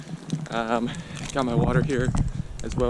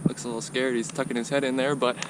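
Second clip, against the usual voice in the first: while running. Real, not acted. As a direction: narrate while jogging, pushing breath. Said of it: "just hit the ten mile mark".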